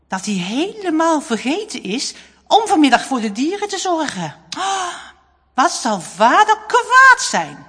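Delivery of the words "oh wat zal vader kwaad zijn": put-on worried boy. A narrator's reading. Boy fears angry father.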